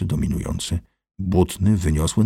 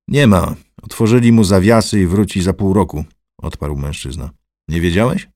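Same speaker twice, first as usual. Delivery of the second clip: loud rough offhand reply; coarse louder voice; gruff gatekeeper; 6 dB louder than usual. Acted. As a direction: toss off the news loudly. Mural answers about Marynarz.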